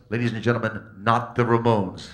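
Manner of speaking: hammed-up emcee at full volume; stage introduction. Emcee introduces the stand-in opener to a punk crowd, booming announcement. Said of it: "All the audience heard was".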